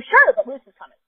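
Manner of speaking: New York accent slipping out. Real, not acted. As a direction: let a New York accent come through. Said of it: "You heard my New York accent come out".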